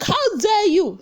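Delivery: high, indignant exclamation; hammed-up offended diva; mock outrage. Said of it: "he was like".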